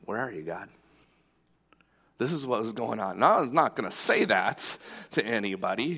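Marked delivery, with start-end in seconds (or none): 0.1-0.7 a soft, hushed cry to God; desperate plea to God. Retold or imitated. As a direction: ask it quietly, as if lost. Despairing private prayer, remembered.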